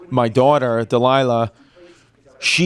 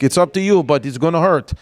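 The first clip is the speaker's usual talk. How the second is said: put-on Russian accent. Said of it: "this Russian woman".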